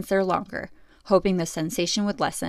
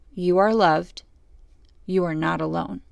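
gentle assured voice. Retold or imitated. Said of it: "a gentle but assured voice".

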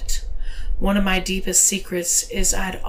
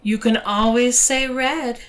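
higher, smiling lilt; smiling reassurance, pitched up; smile in the voice; 5 semitones higher than usual. A narrator's reading. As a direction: let a smile lift the pitch. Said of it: "with a smile in her voice".

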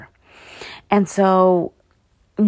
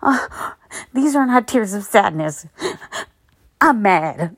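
mock tearful denial. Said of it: "don't sit here and be like".

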